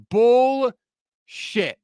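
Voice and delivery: fed-up bullshit after mocking an excuse; angry retort. Real, not acted. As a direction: spit the word out in disgust. Angry rant.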